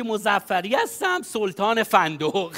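slow, self-important introduction; slow pompous introduction; grand self-introduction. Shown as a demonstration. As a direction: announce yourself like a hazelnut king. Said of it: "میگی که".

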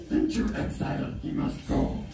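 Yoda whisper. Acted. Yoda voice in story.

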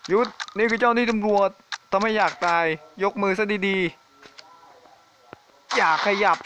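barking police orders at a fleeing monster; mock police officer.

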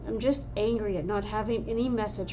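builds into an angry shout; frustrated outburst. Acted. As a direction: let the frustration burst out at the end. Frustrated medicine cat venting.

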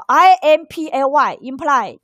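I M P L Y spelled letter by letter, very slow, then imply; slow spelling. Shown as a demonstration. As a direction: spell it out slowly for students. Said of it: "暗示".

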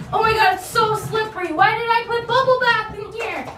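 high, fast flustered yelp; panicked about slipping. Real, not acted. Slipping while getting out of the tub.

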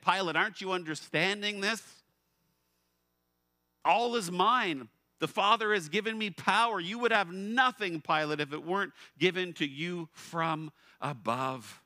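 loud, high, majestic declaration; Jesus answering. Acted. Preacher voicing Jesus answering Pilate, loud and majestic. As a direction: proclaim it with calm authority.

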